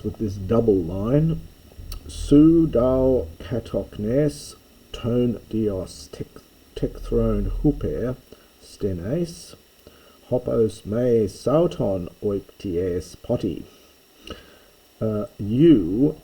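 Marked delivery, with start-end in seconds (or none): 2.1-13.6 slow Greek recitation. Acted. Teacher reading the Greek couplet aloud to the class, slow and deliberate. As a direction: read the Greek line slowly, each word weighed.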